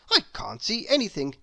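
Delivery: breathless, eager chatterbox rambling on; a silly, delighted gossip who can't stop talking; chattering Mr Chatterbox. Acted. Chatterbox under hat.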